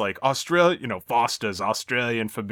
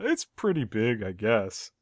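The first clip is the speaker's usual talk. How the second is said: understated letdown, trailing off softer; mildly disappointed; 2 semitones lower, 5 dB quieter, slower than usual. Retold or imitated. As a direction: retell it a little underwhelmed. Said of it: "Homer's a little disappointed".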